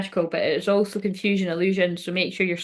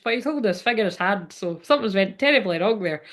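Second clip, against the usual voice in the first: put-on Irish accent; faster than usual. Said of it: "I don't know why I went Irish".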